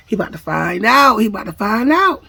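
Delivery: defiant retort. Retold or imitated. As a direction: act out a cocky warning, punching the end. Threat muttered over a thrown phone.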